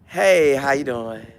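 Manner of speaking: quiet, slow mock-weary aside; Shador's thoughts. Shador muttering as reporters arrive, mock weary. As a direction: sigh it out under your breath. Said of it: "Shador probably be saying to himself".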